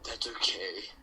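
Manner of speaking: mildly depressed reassurance. Acted. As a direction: say it a little downcast. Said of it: "He said, and all depressed".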